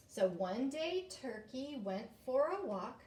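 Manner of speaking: slow, measured read-aloud; read-through. Shown as a demonstration. Teacher reading a poem to children, slow read-aloud. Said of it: "I'm gonna read the whole thing first".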